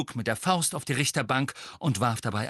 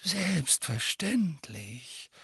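polite; 6 semitones higher, 3 dB quieter, much slower than usual. A narrator's reading. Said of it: "sagte Dumbledore höflich".

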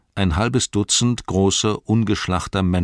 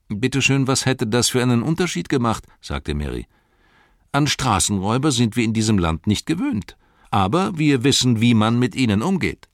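Merry, defiant; 7 semitones higher than usual. A narrator's reading. Merry defies the ruffian.

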